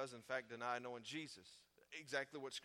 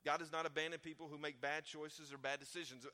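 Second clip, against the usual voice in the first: louder, driving the point home; louder emphatic repeat; 3 semitones higher, 6 dB louder than usual. Shown as a demonstration. Preacher repeating the promise to the congregation, louder. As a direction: preach it louder the second time. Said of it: "Do you know that?".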